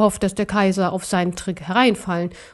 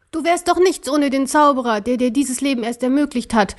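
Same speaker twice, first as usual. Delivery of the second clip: a touch of a raised angry voice; mild shouting; 4 semitones higher than usual. Acted. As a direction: snap at the emperor, only lightly raised. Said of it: "schrie er den Kaiser an".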